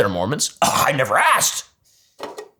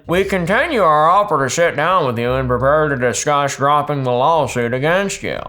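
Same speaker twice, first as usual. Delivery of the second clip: put-on Utah accent. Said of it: "That's my best Utah accent".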